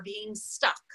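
whispered, unvoiced; a soft whisper. Real, not acted. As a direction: breathe the words out with no voice. Whispered aside.

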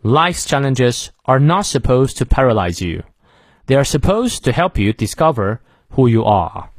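slow model reading, weight on "challenges", "not" and "supposed"; content words stressed. Shown as a demonstration. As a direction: lean on "not" and "supposed" for learners to repeat. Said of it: "再来一遍".

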